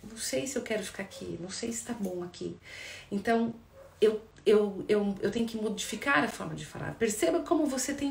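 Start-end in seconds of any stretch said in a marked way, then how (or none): 0.0-2.6 calm I-statement. Shown as a demonstration. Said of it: "Quando eu digo".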